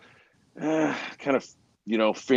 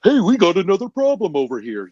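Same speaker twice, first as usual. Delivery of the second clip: mock upsell pitch; 7 semitones higher, 5 dB louder than usual.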